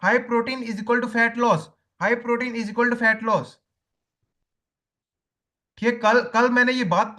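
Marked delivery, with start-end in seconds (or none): 0.0-1.6 very slow, word by word for notes; slow dictation. Shown as a demonstration. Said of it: "एक चीज लिख लो". 2.0-3.5 very slow, each word spaced for writing; slow dictation repeated. Shown as a demonstration. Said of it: "एक चीज लिख लो".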